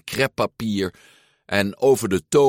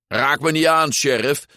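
mock shout; 7 semitones higher, 4 dB louder than usual. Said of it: "schreeuwde meneer Aardappelhoofd".

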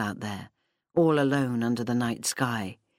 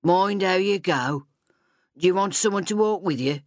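kinder voice; 5 semitones higher, 3 dB louder than usual. Acted. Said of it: "a kinder voice asked".

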